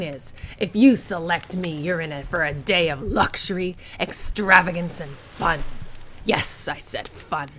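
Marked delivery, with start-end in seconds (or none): 6.2-7.5 slow, low deadpan; dry deadpan. Acted. Character flatly stressing fun.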